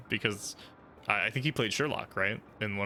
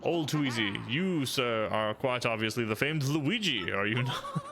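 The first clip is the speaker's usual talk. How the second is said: lightly voiced pompous sleuth; a hint of a smug investigator; generic inquisitive detective. Detective penguin lecturing the player, lightly pompous. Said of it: "generic inquisitive person".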